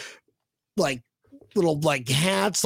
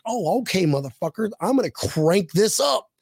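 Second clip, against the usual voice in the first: mildly angry retold devil; a touch of mock fury, more resolve than yelling; furious devil; 2 semitones higher than usual. Devil in a joke threatening two guys, mildly furious. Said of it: "he's furious".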